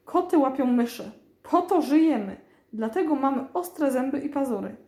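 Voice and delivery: a hint of a stern teacher lecturing; schoolmarm tone. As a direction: lay down the law to a pupil. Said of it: "zaczęła belferskim tonem".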